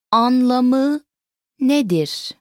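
slow, two words set well apart; broken down. Shown as a demonstration. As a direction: stretch each word and pause between them. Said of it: "Let's break it down".

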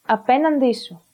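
"απέναντί σου" stressed on πέ and τί; "σου" unstressed after stressed τί; double stress. Shown as a demonstration. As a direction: say "απέναντί σου" closely joined, two stresses. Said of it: "The third case".

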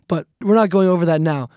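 ordinary talk

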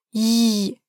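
yi drawn out long. Shown as a demonstration. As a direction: hold yi long. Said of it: "draw it out".

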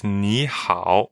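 "ni hao." with ni rising, hao low; "ni hao." said slowly and clearly; modeling ni hao. Shown as a demonstration. Host models the everyday greeting, clearly. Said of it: "let's just hear it again".

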